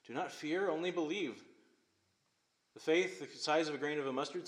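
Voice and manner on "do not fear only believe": gentle reminder. Acted. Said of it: "Jesus is reminding him".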